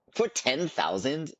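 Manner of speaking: slow rising disbelief; shocked. Real, not acted. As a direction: stretch it out in disbelief. Shocked at a price.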